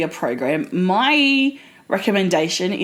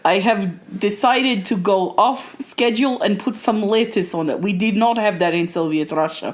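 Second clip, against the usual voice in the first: mock Russian guide; 2 semitones lower than usual. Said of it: "you can eat their food".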